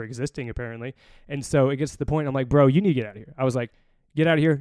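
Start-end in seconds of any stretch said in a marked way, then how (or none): 2.5-3.3 louder retold order; firm dismissal. Recruiter ordering angry dad out, firm. 4.2-4.6 higher, louder retold command; forceful dismissal. Recruiter throwing angry dad out, forceful.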